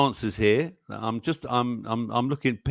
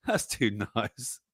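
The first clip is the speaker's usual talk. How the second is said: soft, touched; 4 semitones lower, 5 dB quieter, slower than usual. Real, not acted. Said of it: "repeated softer".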